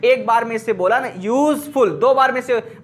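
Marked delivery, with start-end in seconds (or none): 1.2-1.9 "यूजफुल" slowly, as two beats, यूज-फुल; split into syllables. Shown as a demonstration. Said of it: "अपनी जुबान को दो बार चलाना पड़ेगा".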